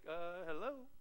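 an exaggerated duh hello; as if the answer is obvious; mock incredulous. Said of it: "he's like".

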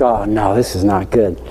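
low-pitched muttered worry; inner dismay. Retold or imitated. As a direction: drop the voice, realizing trouble to yourself. Teacher's inner dismay at empty notebooks.

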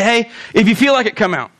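mock offhand invitation, dropping away at the end; casual suggestion. Preacher mimicking what Jesus didn't say, casual suggestion. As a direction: toss it out as optional. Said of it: "He doesn't say".

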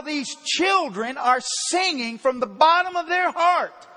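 angry rant. Retold or imitated. Pastor scolding the chatting congregation during the children's song, furious and loud. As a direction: bellow it like an outraged preacher scolding chatterers. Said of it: "And it made me mad".

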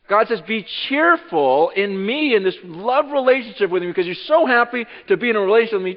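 loud, high preaching voice, driving hard; full-force preaching. Acted. Preacher to congregation, loud full-force preaching.

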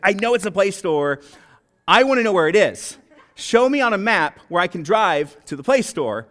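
a hint of an exasperated customer, laughing through it; frustrated customer. Customer demanding directions to the Play Store, mock exasperated and laughing. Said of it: "I'm getting really frustrated".

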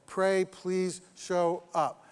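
slow, weighty naming of the prayer; pray, please show up, spelled out slowly; slow announced title. Shown as a demonstration. Preacher naming the prayer to his congregation, slow and weighty. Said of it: "is what he calls".

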